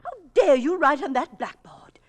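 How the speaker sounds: furious whisper at the intruders; outraged at strangers writing on the blackboard, hissed angrily; angry hushed hiss. Acted. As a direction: scold in a sharp, forceful whisper. Secretary scolds intruders at blackboard.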